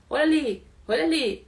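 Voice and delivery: God urgently pointing. Retold or imitated. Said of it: "ele fala".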